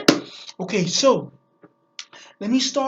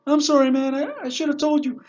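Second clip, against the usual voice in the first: lightly raised, louder confession; a hint of an embarrassed driver owning up; sheepish cab driver; 4 semitones higher, 3 dB louder than usual. Cab driver explaining himself to his passenger, sheepish. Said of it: "the cab driver goes".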